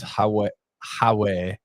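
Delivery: "Howe" said as ha-way, open first vowel; Sunderland "Howay". Shown as a demonstration. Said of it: "Sunderland is Howe".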